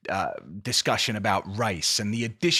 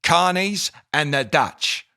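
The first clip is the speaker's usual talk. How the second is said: Austin Powers' dad; 3 semitones higher, 4 dB louder than usual. Retold or imitated. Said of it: "Austin Powers' dad hates the Dutch".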